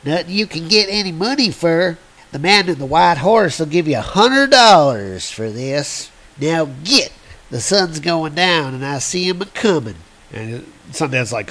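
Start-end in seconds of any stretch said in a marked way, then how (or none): 0.0-10.0 lightly voiced old-timer; a hint of grizzled prospector. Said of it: "old prospector character".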